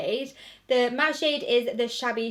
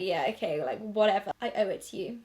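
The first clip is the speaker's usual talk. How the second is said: dismissive; 4 semitones lower, faster than usual. Retold or imitated. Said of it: "rolled my eyes at you and been like".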